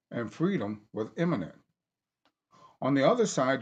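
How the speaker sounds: emphatic formal reading of a text; reading aloud. Acted. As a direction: read it like a speech. Reads his book aloud.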